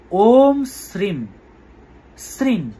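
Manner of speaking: very slow, শ্রীম ending in a nasal ng like sring; drawn out sring with a nasal ending; careful mantra pronunciation. Shown as a demonstration. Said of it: "অনুস্বারগুলো ময়ের মতো উচ্চারণ হবে".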